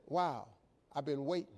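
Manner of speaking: low, hushed admission; imitating a quietly smitten suitor; soft confession. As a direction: drop low and soft, as if confiding. Maitre d' confides his long wait.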